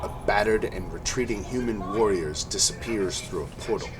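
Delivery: steady storytelling over music; game master narration. A narrator's reading. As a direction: describe the battlefield evenly. DM scene narration.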